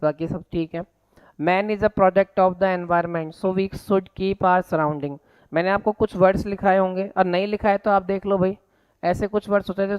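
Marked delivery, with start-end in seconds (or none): 1.4-5.2 very slow word-by-word dictation. Shown as a demonstration. Teacher dictating a sentence to copy down, very slowly. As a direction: read it slowly so students can write.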